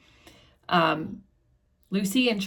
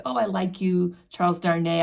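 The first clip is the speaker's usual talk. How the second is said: mock-friendly sing-song, lightly drunk; drunken fond taunt. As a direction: tease him as if tipsy and fond. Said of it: "obnoxious conversation where he's like".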